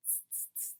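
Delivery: soft, voiceless "tss" noises; monkey chatter. A narrator's reading. Monkeys answering the peddler back, soft hissy chatter. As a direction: tut softly like teasing monkeys. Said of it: "stamped both their feet and said".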